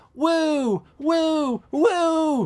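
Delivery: high gleeful woo; excited whoops. Retold or imitated. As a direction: whoop like swinging through the air. Cheering Spider-Man swinging.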